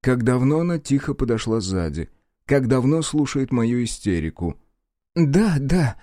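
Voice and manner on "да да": absent-minded. A narrator's reading. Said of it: "рассеянно сказала я".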